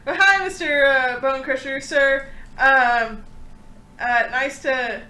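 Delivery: awkward, eager character voice with ums; hesitant politeness. Acted. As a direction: stammer politely up to a big orc. Player timidly addresses the charmed Bonecrusher.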